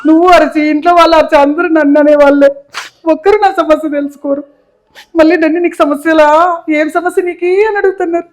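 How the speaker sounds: mildly tearful protest, climbing in pitch; hurt complaint. Acted. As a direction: complain as if everyone is against you. Hurt patient complains of being scolded.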